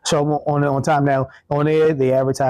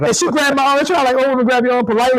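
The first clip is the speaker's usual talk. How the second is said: imitating polite stern woman; 10 semitones higher, faster than usual.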